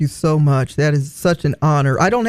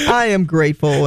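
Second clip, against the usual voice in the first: normal talking voice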